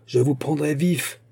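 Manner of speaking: high-pitched determined call; called-out vow. A narrator's reading. Musketeer vowing to capture his enemy, called-out vow. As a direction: vow it across the gap. Pursuer vows capture while riding.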